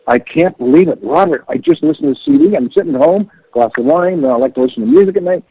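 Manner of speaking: retelling an excited phone call, voice lifted. Retold or imitated. Bandmate phoning late after hearing the CD, excited. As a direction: imitate a friend's excited gush, pitch jumping up. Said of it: "He was so excited".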